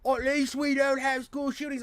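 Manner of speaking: high, loud cartoon British accent, Oi oi; a cheeky Brit in a mock British accent; hammed-up British accent taunt. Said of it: "he's like".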